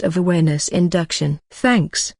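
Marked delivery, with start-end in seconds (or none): 1.5-2.1 raised, bright thanks; higher. Acted. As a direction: lift the word up high. Character thanks sweetly.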